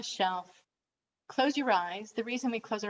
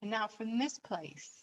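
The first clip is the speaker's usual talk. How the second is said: guided meditation; 4 dB quieter than usual. Acted. Coach inviting listeners to reconsider their situation, guided meditation. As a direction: lead them gently through it, leaving space after phrases.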